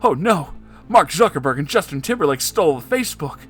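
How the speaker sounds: high, loud and fast alarm; panicked cry. A narrator's reading. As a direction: blurt it out in panic. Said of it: "cried Eduardo in panic".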